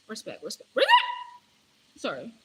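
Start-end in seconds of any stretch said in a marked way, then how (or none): 0.7-0.9 sudden scream. Real, not acted. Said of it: "I don't know why I screamed".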